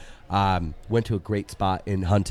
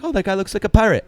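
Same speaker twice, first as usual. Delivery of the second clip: excited; 9 semitones higher, 4 dB louder, faster than usual. Retold or imitated. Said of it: "we're all like".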